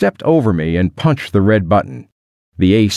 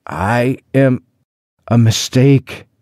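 mildly stammering, higher-pitched protest; halting, raised-voice stammer; 4 semitones higher, slower than usual. A narrator's reading. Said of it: "I stammered".

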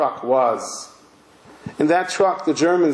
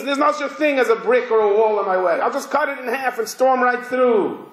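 higher-pitched, unstoppable mock warrior; lightly acted aggression, pitched up; acted defiance; 4 semitones higher than usual. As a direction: charge through the words with acted bravado. Voices an aggressive sword.

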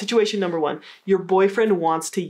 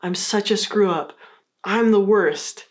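self-pitying apology. Shown as a demonstration. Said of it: "A more negative way to approach this is to say".

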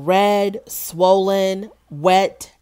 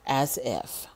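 breathless scoffing whisper; whispered aside; 5 semitones lower, 8 dB quieter than usual. Real, not acted. Whispering scornfully to viewers about the show. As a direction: hush it like a secret dig. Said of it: "whispered aside".

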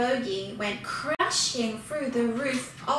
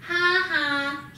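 loud, higher mocking ha ha; a cheeky gloating laugh; the bogey laughs at the woodcutter; 3 semitones higher, 4 dB louder than usual. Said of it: "as he laughed".

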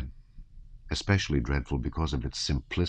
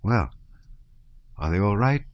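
mildly amused kindliness; smiling; 3 semitones higher than usual. A narrator's reading. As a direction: friendly question with a lifted, lilting end. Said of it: "said the soldier with a smile".

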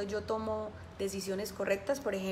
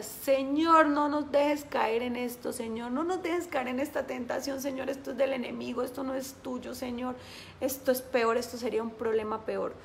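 retold tearful prayer; 2 semitones higher than usual. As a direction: beg the Lord, a touch of tears. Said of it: "con lágrimas en los ojos ... yo decía". (súplica llorosa, apenas actuada)

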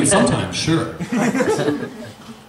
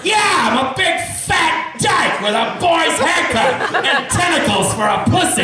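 Ursula voice; 9 semitones higher than usual. Acted. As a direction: belt it like a cartoon sea witch. Ursula voice answering question.

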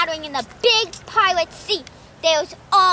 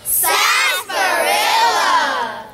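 drawn-out shout; much slower than usual. Acted. Finishing pirate rhyme.

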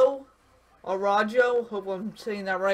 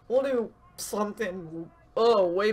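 interrupted by a hiccup; talking through the hiccups. Real, not acted. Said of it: "have the hiccups".

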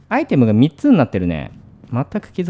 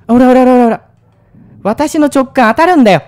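excited shout; 9 semitones higher, 10 dB louder than usual. Real, not acted. Enemy appears as predicted.

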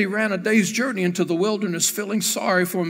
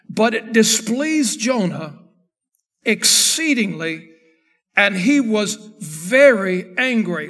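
slow reading. Shown as a demonstration. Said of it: "In verse number one".

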